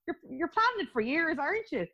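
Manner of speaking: high, giggly confession; laughing admission. Real, not acted. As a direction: let real laughter lift the voice as you tell it. Laughing as she admits teasing remark.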